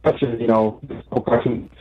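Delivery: muffled, far from the mic; muffled phone. Real, not acted. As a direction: voice dulled as through a covered phone. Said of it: "You're a bit muffled".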